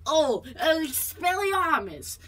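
slow, drawn-out hero spell; mock heroic Harry casting. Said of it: "Harry's like".

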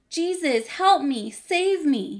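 high, loud storybook plea; yell for help. A narrator's reading. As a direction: cry out to be rescued. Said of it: "he yelled".

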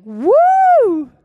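high, thrilled whoops and gushing; excited disciples. Retold or imitated. Disciples cheering to each other after casting out demons, high and thrilled. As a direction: play a giddy disciple back from a win, voice soaring. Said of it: "and being like".

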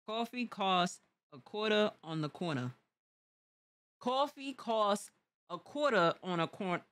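testing out a New York accent, carefully spaced. Shown as a demonstration. Host takes the New York accent test, New York accent. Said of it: "Wanna test your New York accent".

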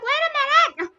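high, loud ranting complaint; exasperated shouting. Retold or imitated. Streamer ranting at callers who ring mid-stream, exasperated shouting. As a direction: shout it high, dragging out the end.

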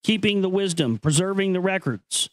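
measured, grave reading of an ancient text; solemn recitation. Acted. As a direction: read it like sacred scripture, unhurried. Reads ancient text aloud.

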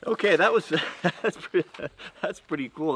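high, loud burst of excitement after the cut; thrilled by how fast it cut; excited shout over ringing ears. Real, not acted. Just finished the fast cut.

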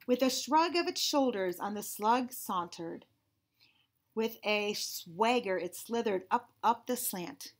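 slow, measured read-aloud; unhurried storybook reading; picture-book narration. Acted. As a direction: read slowly to children, savoring each alliterative word.

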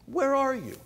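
high, loud call, "Where" pushed hard. Shown as a demonstration. God calling out to hiding Adam, loud and high. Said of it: "God calling Adam, second take".

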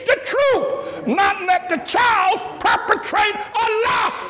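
high, slow, shouted preaching; high shouted preaching, slow and hammering; full-force preaching. Real, not acted. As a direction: thunder it from the pulpit.

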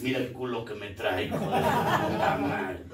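put-on boastful old man, laughing on the curse; mock bragging old man, laughing. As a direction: brag it, cracking up at the end. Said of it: "Y tú le dices".

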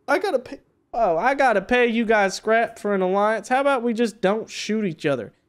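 put-on southern accent, bargaining. Player haggling with neighbors over scrap, southern accent. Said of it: "talk in my southern accent".

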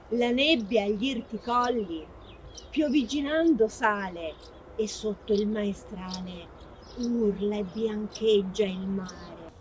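verse recited from memory in measured phrases; declaimed poetry for its author; poem recitation. Acted. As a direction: recite line by line, pausing between verses. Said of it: "Mi può citare qualcuna delle mie poesie?".

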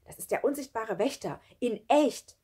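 lecturing. A narrator's reading. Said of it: "belehrte sie Sami".

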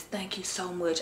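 slight lisp from a retainer; wearing a retainer. Real, not acted. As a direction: talk with a retainer in your mouth. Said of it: "I got my, uh, retainer in. That's why I have a little list".

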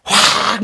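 a sharp explosive angry "확!", high and loud; angry burst. Shown as a demonstration. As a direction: blurt it out like a blow-up of temper. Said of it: "뭐 이런 거 있잖아요". (버럭 터지는 "확!")

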